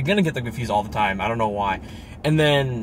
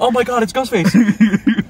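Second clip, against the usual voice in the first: high, louder, drawn-out mock alarm with laughter; imitating a joke-like line; 8 semitones higher, 5 dB louder, slower than usual. Showing how he said it, laughing mock alarm. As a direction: ham it up slowly, half laughing. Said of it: "the way he said it".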